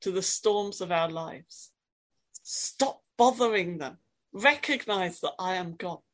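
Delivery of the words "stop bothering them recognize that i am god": stern rebuke. Acted. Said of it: "does he say it to those troubles".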